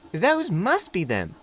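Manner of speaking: put-on a young engine shyly making friends; little diesel meeting Duck, high and eager; friendly little diesel. A narrator's reading. Philip high slow.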